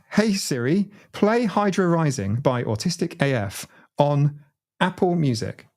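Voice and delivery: slow, clear command to a smart speaker; deliberate smart speaker command. Pretend. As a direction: spell it out slowly for the device.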